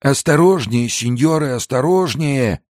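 put-on high, anxious old man's plea; agitated pleading. Old man begs guards handling his crate, agitated pleading. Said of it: "умолял их старик, пришедший в неописуемое волнение".

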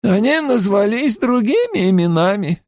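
measured, guarded reply; slowly, deliberately. A narrator's reading. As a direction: give it out with care. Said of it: "произнесла она медленно".

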